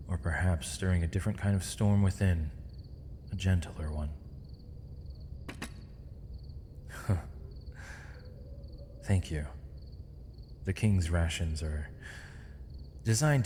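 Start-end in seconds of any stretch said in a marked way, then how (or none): 4.1-9.0 faint huff of amusement; brief, hushed laugh through the breath; small breathy laugh. Acted. Prisoner receives a kindness from the knight, faint breathy laugh.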